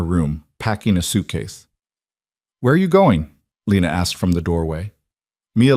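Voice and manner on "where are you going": high startled question; alarmed. Acted. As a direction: catch her sister leaving, alarmed. Lena alarmed seeing sister packing.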